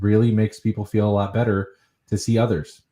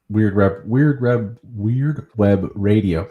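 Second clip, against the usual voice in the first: slow, deliberate word by word; careful tongue-twister; much slower than usual. Real, not acted. Host retrying a stumbled show name, slow and careful. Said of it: "such a tongue twister".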